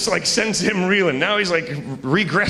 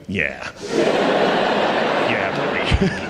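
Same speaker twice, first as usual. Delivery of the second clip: deadpan; 9 semitones lower than usual. Retold or imitated. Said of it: "look back at him like".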